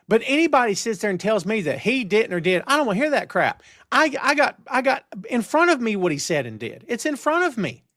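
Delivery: fired up. Real, not acted. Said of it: "I just suddenly got fired up".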